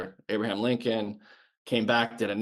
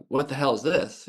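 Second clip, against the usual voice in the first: imitating a Southern accent, slightly raised; 3 semitones higher than usual. A sailor retelling his chief's reaction to a letter, mimicked Southern accent. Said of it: "in this Southern accent".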